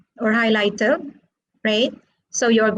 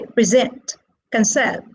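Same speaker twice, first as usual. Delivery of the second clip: "present" and "conserve" stressed on their last syllables; stress on second syllable. Shown as a demonstration. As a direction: say pre-SENT, con-SERVE, weight on the second syllable. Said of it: "stressed on the second syllable".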